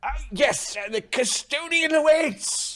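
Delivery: very high, nervous stuttering. Pressed to speak to Lady Zane, Jervis finally answers: Jervis nervous stuttering. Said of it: "when he gets nervous, he stutters".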